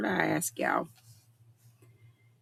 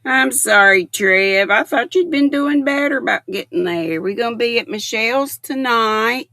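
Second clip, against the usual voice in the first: apologizing loudly to a late viewer; loud apology; 3 semitones higher, 6 dB louder than usual. Real, not acted. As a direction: call it out eagerly. Excited chat to late viewer.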